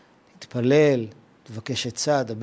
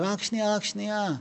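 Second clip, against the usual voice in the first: quiet pause; 4 semitones higher, 9 dB quieter than usual. Retold or imitated. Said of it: "אז מגיע הרגע שהוא אומר".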